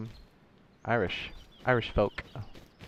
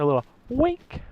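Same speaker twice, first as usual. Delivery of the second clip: playful wink; 14 semitones higher than usual. Pretend. Playful hint to viewers.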